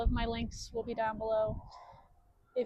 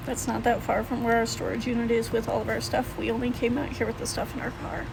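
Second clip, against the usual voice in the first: shaky, worn-out voice after crying; 4 dB louder than usual. Real, not acted. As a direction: talk through the tail end of tears. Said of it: "sorry, I've been crying and I'm trying to get my emotions out".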